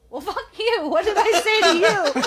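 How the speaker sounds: high, loud, ranting retelling; mock-angry tirade. Stressed partner yelling as he leaves, mock-angry. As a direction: rant at him with a laugh underneath. Acts out drunken quarrel with partner.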